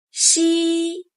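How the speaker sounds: 西 held level and high; flat tone xi. Shown as a demonstration. Teacher demonstrating 西 for learners, flat high tone. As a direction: keep 西 flat. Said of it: "西 with flat tone".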